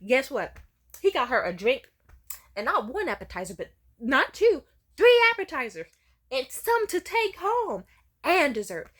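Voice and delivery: high, loud, building amazement; mom gushing. Retold or imitated. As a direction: list it all with growing excitement. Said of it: "She was like".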